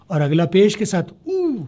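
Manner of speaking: drawn-out ऊ at the end, slowed down; slow motion demo. Shown as a demonstration. Teacher slowing down ऊ for students, drawn out. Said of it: "slow motion".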